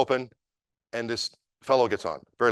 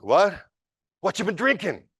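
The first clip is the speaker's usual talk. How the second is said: a high, baffled echo of the question; mock-bewildered drunk repeating back; confused retort; 9 semitones higher, 3 dB louder than usual. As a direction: drunk man thrown off.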